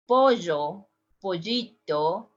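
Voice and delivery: pollo, pollito with zh, "pozho"; zh sound. Shown as a demonstration. Teacher demos chick with zh. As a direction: ll voiced like measure. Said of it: "we said".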